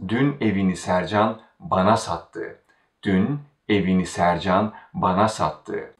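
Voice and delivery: bana made the focus before sattı; stress on bana. Shown as a demonstration. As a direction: put the weight on bana. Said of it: "the stress is again on the word bana".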